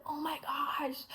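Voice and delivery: breathless whispered gasp of disbelief; stunned whisper. Retold or imitated. Hearing the girl is from Texas, awed whisper. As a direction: whisper it as if the news can't be real. Freaking out at the answer.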